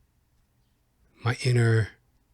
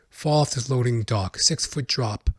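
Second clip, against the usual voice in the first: ordinary delivery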